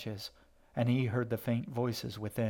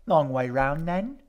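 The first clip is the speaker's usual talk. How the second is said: high, loud and slow mock-cheerful question; false cheer; 5 semitones higher, 8 dB louder than usual. Edgar teasing her brother about the route, false cheer. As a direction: sing it out with fake good humour. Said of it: "Edgar said with false cheer".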